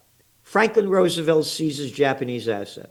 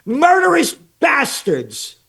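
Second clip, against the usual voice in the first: angry rant; 3 semitones higher than usual. Real, not acted. Ranting about kings.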